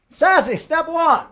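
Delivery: slow, high, loud sassy announcement. Pretend. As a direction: flaunt each step with hammed-up sass. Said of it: "The sassy way, just for all of you".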